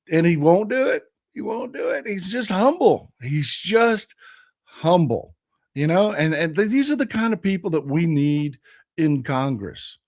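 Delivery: strained, squeaky hoarse voice. Real, not acted. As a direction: talk through a voice that is nearly gone. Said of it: "forgive my voice. You know, I'm sitting here squealing".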